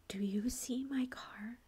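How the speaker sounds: measured, incredulous retort in a retelling; indignant retort. Retold or imitated. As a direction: spell it out slowly, mildly indignant. Retold argument after the crash.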